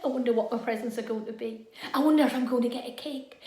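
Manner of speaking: quick, eager chatter, fast; rushing with birthday excitement; giddy birthday-morning thoughts; excited girl. Acted.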